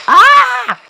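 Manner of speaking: high, loud pained scream. Acted. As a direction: shriek as if burnt. Hit in play fight. (cri de douleur aigu)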